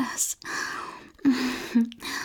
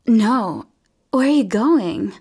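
protest; 3 semitones higher, 5 dB louder than usual. Acted. Listener pulls away.

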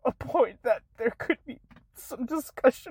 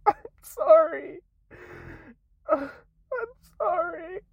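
tearful sorry; 6 semitones higher than usual. Real, not acted. Creator ending the apology to followers in tears, crying.

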